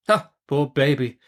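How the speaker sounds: a touch of musing pity. Acted. Betsy musing by the fire, with pity. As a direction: murmur it to yourself. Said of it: "mused Miss Betsy".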